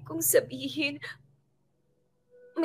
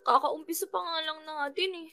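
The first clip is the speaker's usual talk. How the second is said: put-on slurring drunk. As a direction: drunk and brushing it off. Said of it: "Lasing na lasing ka na".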